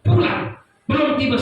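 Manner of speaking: a loud heavenly voice ordering him back; retold calling voice. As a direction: summon him home like a voice from heaven. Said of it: "berteriak begini".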